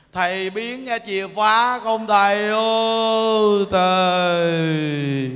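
slow, drawn-out moaning ghost call; ghostly wail. Acted. Dead soul wailing to the monk who performed its rites. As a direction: stretch each word like a lost spirit crying out in the night.

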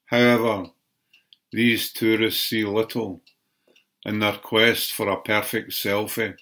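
measured poetry recital, phrase by phrase with pauses; poem reading. Acted. Poet reading a poem on tourists taking selfies, measured recital. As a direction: read it as a poem, line by line. Reads own poem aloud.

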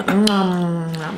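low slow mock yummy hum; fake eating sounds. Shown as a demonstration. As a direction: hum like savoring food. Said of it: "just do some fake sounds".

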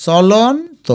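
চলন্ত as cholon with rising pitch, then to; broken into parts. Shown as a demonstration. Teacher sounds it out for spelling, চলন্ত in parts. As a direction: pause before the final to of চলন্ত. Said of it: "ভেঙে ভেঙে লিখবে".

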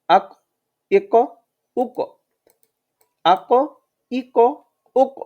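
আক, ইক, উক with the final ক released in a small bounce; bounced final consonant. Shown as a demonstration. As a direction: end each syllable with a clear echo on ক. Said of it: "কলকলা করে পড়ব, মানে অর্থাৎ ধাক্কা দিয়ে পড়ব". (ক-তে ধাক্কা দিয়ে কলকলা উচ্চারণ)

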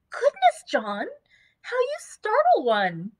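put-on high startled cry of a young wife. Dot startled by John's shout, high and scolding. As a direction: jump at his shout, then scold.

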